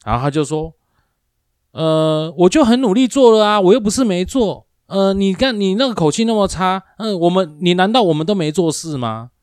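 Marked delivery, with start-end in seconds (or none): 1.7-9.3 high, loud aggrieved protest from the coworker; whiny complaining coworker. Retold or imitated. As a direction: play the offended coworker defending himself, pitched up. (模仿同事委屈抱怨，声音尖高)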